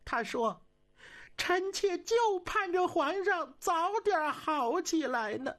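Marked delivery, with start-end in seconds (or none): 1.4-5.5 empress's voice. Acted. Empress speaks sweetly to emperor.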